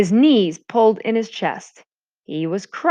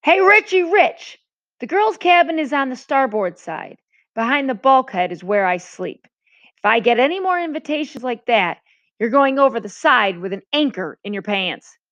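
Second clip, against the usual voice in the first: high, sharp scolding voice, loudest on the first shout; a mate chewing out a cheeky boy; furious mate; 5 semitones higher than usual. Acted. Angry mate scolding J J through the cabin door, raised voice. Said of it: "The furious face of Mister Radford".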